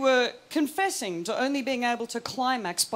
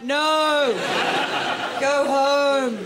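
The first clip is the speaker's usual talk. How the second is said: mock aggressive heckle; 4 dB louder, much slower than usual. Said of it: "so aggressive if every single".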